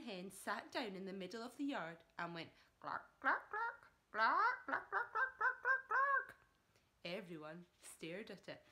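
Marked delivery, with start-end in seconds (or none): 2.8-6.3 high, loud hen clucks; hammed-up hen clucking.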